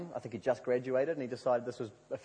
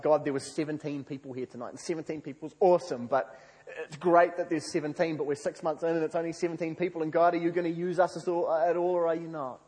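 higher, insistent pleading with God; exasperated plea; 4 semitones higher, 4 dB louder than usual. Retold or imitated. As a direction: build into an acted, run-on complaint. Discouraged plea to God, building.

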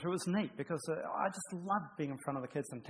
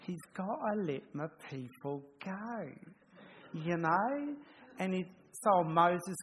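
lightly voiced Aussie bloke, slowed and higher; a hint of a larrikin storyteller hamming it up for kids; playful kids' Bible story voice; 4 semitones higher, slower than usual. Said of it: "I'd trip into, um, different voices and stuff".

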